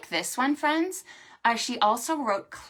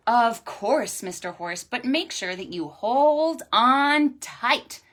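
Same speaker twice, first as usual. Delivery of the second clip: animals' voice; 3 semitones higher, 7 dB louder than usual. Acted. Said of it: "says Cat and Dog and Pig and Duck".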